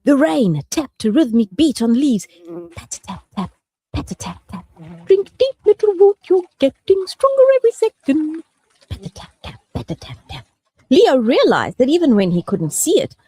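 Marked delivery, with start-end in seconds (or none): 2.8-4.6 softly spoken rain patter. Acted. Rain sound in story. 5.1-8.4 higher, bright encouraging voice; high encouraging rain voice. Acted. The rain's voice. 8.9-10.5 soft whispered raindrops; whispered rain patter. Acted. Rain sound repeats.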